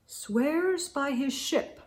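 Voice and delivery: quiet slow aside; soft aside. Real, not acted. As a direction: murmur it to the listener.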